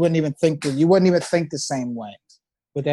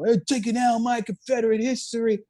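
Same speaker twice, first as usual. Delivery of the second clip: imitating a rant; 5 semitones higher than usual. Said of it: "going off and off and off".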